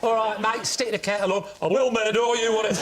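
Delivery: put-on northern accent. Chatting up the floor sander in a mock northern accent. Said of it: "my usual of getting more northern".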